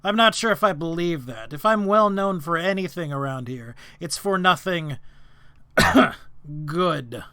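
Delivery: loud, fast and suspicious; a hard-staring construct, pressing them; stern golem lord. Acted. Golem lord doubts the party.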